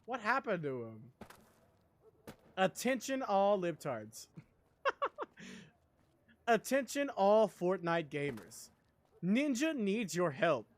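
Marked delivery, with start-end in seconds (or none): 2.6-4.3 slow, lightly voiced announcer; a mock public announcement, drawn out; Voiceover Pete impression. Streamer imitating a meme voiceover artist, slow announcer voice. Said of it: "I also miss voiceover Pete". 6.5-10.7 slow, lightly voiced announcer; a mock public appeal, drawn out; Voiceover Pete impression. Streamer imitating a meme voiceover artist, slow announcer voice. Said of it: "I also miss voiceover Pete".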